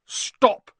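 loud, high-pitched order; commanding. A narrator's reading. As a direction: shout it as a command. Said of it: "he commanded".

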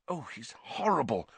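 soft hushed disgust; hushed, ear to the door; whispered. A narrator's reading. Hermione behind the door, whispering in disgust. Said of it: "whispered Hermione".

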